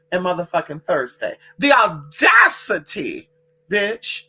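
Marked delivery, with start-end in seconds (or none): 1.6-4.2 slow, louder sassy disbelief; indignant sass, slowed down; outraged. Real, not acted. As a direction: drag out the audacity with scorn. Outraged at the restaurant.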